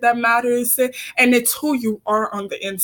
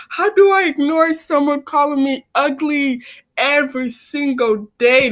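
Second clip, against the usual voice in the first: higher, emphatic protest, dragging out the last words; exasperated retort; 4 semitones higher, 3 dB louder than usual. Retold or imitated. Bullied student answering advice to ignore it, exasperated. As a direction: push back in exasperation, retelling it.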